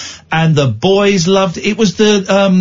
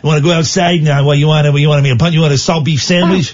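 put-on aggressive American accent; 4 semitones lower, faster than usual. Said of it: "he only does aggressive versions of the American accent".

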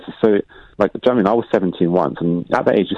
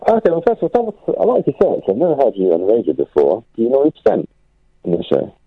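through a tube; 4 semitones higher than usual. Real, not acted. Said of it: "you sound like you're talking through a toilet tube".

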